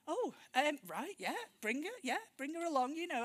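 hesitant yes, pitched a little high; mock-willing, hedging with little stops; daunted agreement. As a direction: agree haltingly, acting out being daunted. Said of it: "we were a bit daunted".

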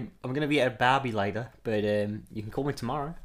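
put-on Australian accent on the phone; Margot Robbie. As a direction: chat casually in an Australian accent. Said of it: "your Australian accent kinda slipping".

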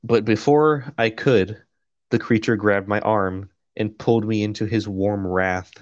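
measured, even audiobook read; steady first-person narration; story narration. A narrator's reading. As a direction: read it out like a novel. Reads the novel aloud.

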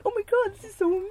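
high, gushing mock amazement; mock gushing investors. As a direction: ham up the dazzled Shark Tank judges. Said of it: "all the Shark Tank people are like".

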